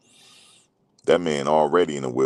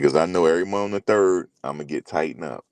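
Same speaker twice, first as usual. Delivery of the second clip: put-on raised, slightly different voice of a proud old man; old cousin's boast. Old cousin bragging to his daughters, lightly voiced boast. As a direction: brag it like the old cousin does. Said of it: "That's how he said it".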